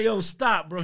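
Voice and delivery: high, loud, laughing disbelief; amazed protest. Retold or imitated. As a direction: reenact a stunned shout to a friend. Retold disbelief at repeated prophecy.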